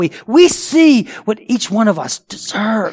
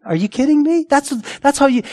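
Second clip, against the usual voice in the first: mock outrage; 8 semitones higher than usual. Mimicking scoffing unbelievers.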